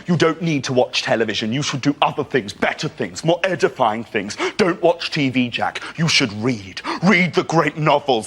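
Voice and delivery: earnest lecturing dad, rising to high slow rapture; old-fashioned dad. Acted. Dad urging his son to read, earnest preachy build. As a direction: start measured, build into drawn-out high fervour. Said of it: "Like my dad, he's quite old-fashioned. He's always saying".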